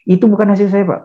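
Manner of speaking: high, pleading cry of denial; distressed client denial. Acted. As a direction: protest it can't be yours, voice climbing.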